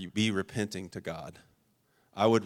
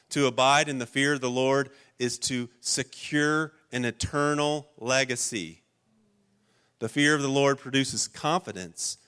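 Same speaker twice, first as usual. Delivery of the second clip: preaching. Acted. Preacher listing the benefits to the church, rising fervor. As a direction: proclaim it to the congregation.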